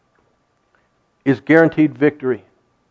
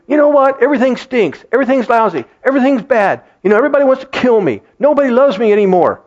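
higher, whining complaint; whiny David complaining; 6 semitones higher, faster than usual. Retold or imitated. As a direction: moan like everything is against you. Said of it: "David is, is saying".

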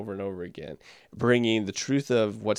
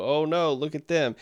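higher-pitched mock tut-tutting; mock dismay; 5 semitones higher than usual. Congregation pointing at others' failings, in mock dismay. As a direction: put on a mild, higher "oh no". Acting out smug finger-pointing reaction.

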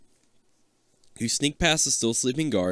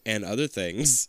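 rapper impression. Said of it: "the rapper".

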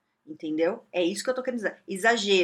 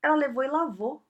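usual speaking voice

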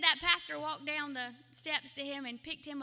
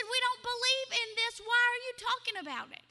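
mildly angry; 7 semitones higher, 3 dB louder than usual. Retold or imitated. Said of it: "Mark got mad".

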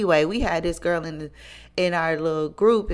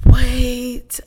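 shocked wait; 6 semitones higher, 11 dB louder than usual. Retold or imitated. Friend shocked by news.

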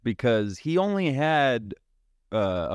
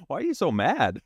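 Peter; 6 semitones higher than usual. Retold or imitated. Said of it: "Family Guy do it with Peter".

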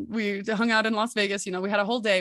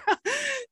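high laugh. Real, not acted. Laughing after the retold shock.

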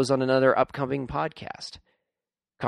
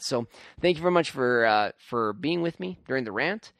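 tired, groggy voice. Real, not acted. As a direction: talk through real grogginess. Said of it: "sorry for my groggy voice".

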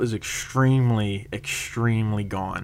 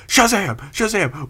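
imitating a drunk friend; 9 semitones higher than usual. Retelling a drunk friend in the theater, high mock shout. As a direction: ham it up like a drunk superhero fan.

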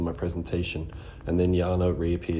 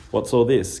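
concerned surprise; 5 semitones higher, 6 dB louder than usual. A narrator's reading. Gage sees tears, concerned.

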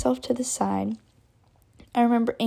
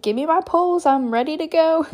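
higher-pitched retold bravado; eager bravado; 5 semitones higher, 4 dB louder than usual. Fallen skier to ski patrol, eager bravado. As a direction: demand it with mock eagerness. Reenacts eagerness to carry on skiing.

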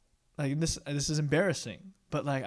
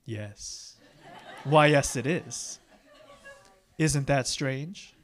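coy laugh; much slower than usual. Retold or imitated. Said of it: "I would be like".

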